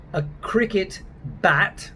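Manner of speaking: slow, deliberate English accent. Shown as a demonstration. Accent coach giving an example of the A, English accent. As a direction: say it slowly as an English speaker would. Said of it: "The English don't say A the same way".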